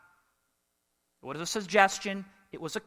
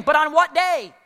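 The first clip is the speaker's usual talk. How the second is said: rising rhetorical question; 6 semitones higher, 6 dB louder than usual. Acted. Rhetorical build to climax.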